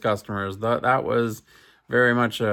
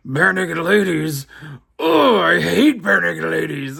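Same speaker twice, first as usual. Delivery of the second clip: loud, higher scoffing disgust; disgusted outburst; 6 semitones higher, 5 dB louder than usual. Retold or imitated. Husband scoffs at the barber's famous client, disgusted. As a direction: spit out the band name with contempt.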